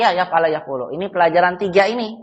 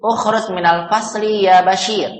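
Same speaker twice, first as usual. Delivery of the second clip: commanding; 2 semitones higher than usual. Shown as a demonstration. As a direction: read out as a firm order. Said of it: "Kita seolah-olah menyuruh atau memerintah".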